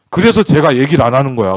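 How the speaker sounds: loud, emphatic retold rebuke. God correcting the father's wrong thinking, retold loud rebuke. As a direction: drive the reproof home loudly, quoting.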